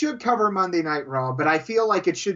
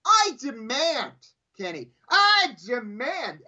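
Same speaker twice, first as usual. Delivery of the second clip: slow, grandly drawn-out demand; mock indignation. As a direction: make a pompous show of outrage. Mock outrage at co-host.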